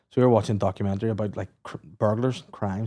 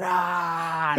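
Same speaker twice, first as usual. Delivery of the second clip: mock scream. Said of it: "she's just screaming".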